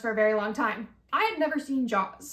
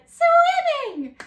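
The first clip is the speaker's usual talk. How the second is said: put-on high, slow girly voice; 8 dB louder than usual. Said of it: "And she's like".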